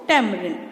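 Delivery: टैमरिंड as "TAM-uh-rind". Shown as a demonstration. Teacher answering her pronunciation question, टैमरिंड as TAM-uh-rind. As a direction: stress first syllable of टैमरिंड, falling end. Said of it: "क्या pronounce करते हैं इसको?".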